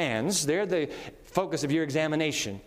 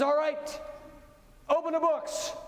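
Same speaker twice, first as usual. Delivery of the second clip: higher, ringing call to open the books; commanding God; 8 semitones higher than usual. Retold or imitated. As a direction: announce it like a judge opening court. God voiced ordering the judgment.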